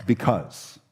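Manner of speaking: low, lightly voiced sheepish "Because"; sheepish excuse. Caught child answering a parent, low sheepish mumble. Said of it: "our response is almost something like this".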